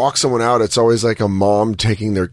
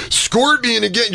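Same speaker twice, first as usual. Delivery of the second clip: put-on high, slow drunken aside; drunk mumble; 10 semitones higher, slower than usual. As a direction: slur it like a wasted comic. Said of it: "And you're like".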